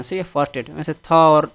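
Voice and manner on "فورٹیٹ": فورٹیٹ said as "far-tet"; pronunciation demo. Shown as a demonstration. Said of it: "اس کو فورٹیٹ پڑھتے ہیں".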